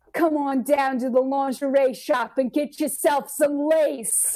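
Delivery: put-on heavy, aggressive, thick, gravelly Philadelphia accent. Imitating the woman who read a lingerie store radio ad: thick Philadelphia accent. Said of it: "had a very thick Philadelphia accent".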